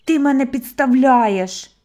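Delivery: loud, slow indignant cry; indignant shout. A narrator's reading. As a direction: call after him, offended and loud. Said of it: "обурено крикнув йому вслід".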